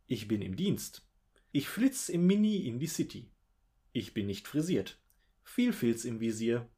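slow, deliberate poem reading in short separate lines; measured, theatrical verse delivery with swooping stresses; poem recitation. Acted. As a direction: recite each line as its own little verse, pausing between.

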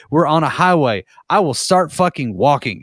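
acted-out exasperation, coming down from high; mock outburst easing off; retold losing it. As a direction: re-enact a fed-up protest. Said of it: "I'm losing my shit".

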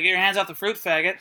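light Australian accent, retold line. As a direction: say it with an easy Aussie twang. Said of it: "Why am I doing an Australian accent".

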